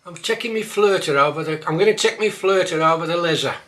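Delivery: Black Country dialect line. Shown as a demonstration. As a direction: say it like a local. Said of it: "might catch you out".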